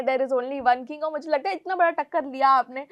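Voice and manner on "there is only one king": slow, drawn-out boast; mock royal boast. Mocking the king controversy, slow and pompous. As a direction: stretch every word like a proclamation. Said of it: "king कौन है".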